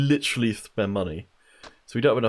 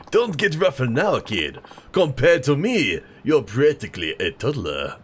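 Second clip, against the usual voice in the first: put-on French accent; 4 semitones higher, 4 dB louder than usual. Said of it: "maybe my voice should be older".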